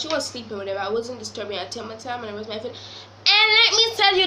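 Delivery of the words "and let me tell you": emphatic buildup. Real, not acted. Building up the bite story.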